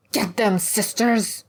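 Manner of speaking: high, drawn-out war cry; rally them to attack, slow and high; attack command. Acted. Hag orders her acolytes to charge, commanding cry.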